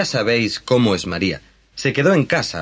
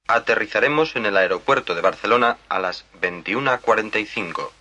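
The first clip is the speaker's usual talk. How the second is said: pilot announcement. Acted. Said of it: "Está hablando el piloto".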